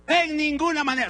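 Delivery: loud, firm and final; emphatic declaration. Shown as a demonstration. Preacher to congregation, loud firm refusal. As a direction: slam the door on the idea. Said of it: "Repite bien fuerte conmigo".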